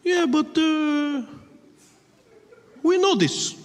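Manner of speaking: put-on high, loud Arabic-accented objection; mock Arab passenger challenging him; unimpressed objecting passenger. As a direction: argue back, building to an exasperated shout. Passenger argues with attacker.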